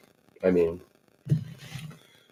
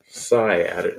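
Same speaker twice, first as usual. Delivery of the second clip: "Sigh" leaned on at the start; stress on sigh; 4 semitones lower than usual. Shown as a demonstration. Host pointing out the comment's emphasis, stress on "Sigh". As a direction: repeat it, putting the weight on "Sigh". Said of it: "emphasis on the sigh".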